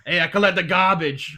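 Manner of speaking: loud eighties trash man. Retold or imitated. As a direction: bellow it like a garbage man. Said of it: "trash man".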